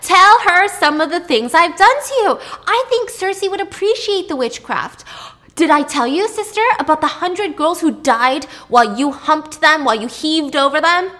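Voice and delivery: a shrieking high, very loud retort; a furious queen screeching her secrets; riled up. Acted. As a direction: lash back with venom, way up high. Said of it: "she was riled up".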